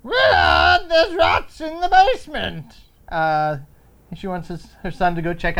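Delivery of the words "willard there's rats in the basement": high, loud mother calling; lovely mother voice. Retold or imitated. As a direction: call down to her son, high. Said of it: "this lovely woman says to her son".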